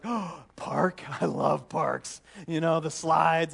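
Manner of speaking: lightly voiced little girl; a hint of a thrilled four-year-old; excited child. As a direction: squeal with delight at parks. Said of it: "gets all excited".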